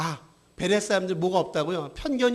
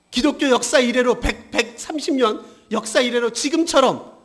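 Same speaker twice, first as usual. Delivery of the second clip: urgent rhetorical questioning from the pulpit; emphatic preaching; 5 semitones higher, 5 dB louder than usual. Acted. Preacher asks why Korean church is criticized, emphatic preaching. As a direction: challenge the congregation with each question.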